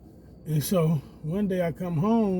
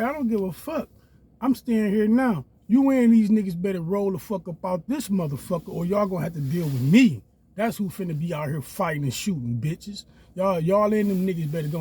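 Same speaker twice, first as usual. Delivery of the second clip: threatening; 4 semitones higher, 4 dB louder than usual. Retold or imitated. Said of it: "I'm like".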